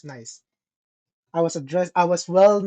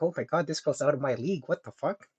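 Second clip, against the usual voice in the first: hushed awe; 4 semitones lower, 9 dB quieter than usual. Retold or imitated. Inner reaction on seeing her picture.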